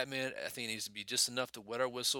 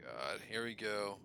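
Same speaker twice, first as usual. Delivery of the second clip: exasperated; 6 dB louder than usual. Retold or imitated. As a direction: start resigned, then burst out fed up. Acting out his exasperated reaction.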